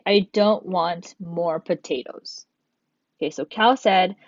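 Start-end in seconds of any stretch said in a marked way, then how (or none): 0.1-2.5 slow, clear "I don't want more potatoes"; teacher modelling the better phrasing; slow correct version. Shown as a demonstration. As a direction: model the right sentence slowly. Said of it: "it would make more sense if we say".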